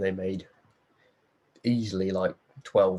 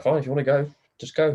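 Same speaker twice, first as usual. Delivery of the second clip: higher-pitched mock standoff; retold exasperated dare; 6 semitones higher, 4 dB louder than usual. Mum calls the runaway kid's bluff, mock exasperated. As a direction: call the bluff, voice raised in retelling.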